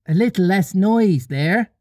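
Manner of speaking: lightly voiced boy hushing the room; Peter calling out. A narrator's reading. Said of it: "Peter called out".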